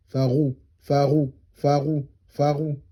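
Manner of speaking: slow Farou with a French-style R; Arabic ghayn. Shown as a demonstration. Teacher repeating the ghayn sound for students. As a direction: roll Farou from the throat like a French R. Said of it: "c'est le rain, qui est comme le R français".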